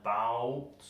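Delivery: bout stretched long as the stressed syllable. Shown as a demonstration. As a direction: draw out the vowel in bout. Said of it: "is very long because it's stressed".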